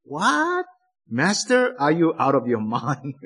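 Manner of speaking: a disciple incredulous at his master's request; disbelieving disciples. Retold or imitated. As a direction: act out the disciples' shocked disbelief. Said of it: "the disciples might react".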